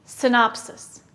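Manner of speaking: Synopsis. said clearly with falling tune; teacher modelling word; model word for repeating. Shown as a demonstration. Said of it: "Repeat after me".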